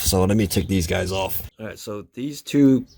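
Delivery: talking while lying under a car; strained, working under the car. Real, not acted. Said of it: "I'm under the car by myself".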